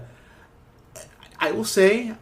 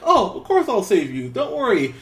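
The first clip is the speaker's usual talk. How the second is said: a hint of a fake-sweet hero, higher and louder; mock reassuring hero; 9 semitones higher, 6 dB louder than usual. Homelander lying to the girl, hammed-up sweet reassurance. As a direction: sell a hollow promise. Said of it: "And he's like".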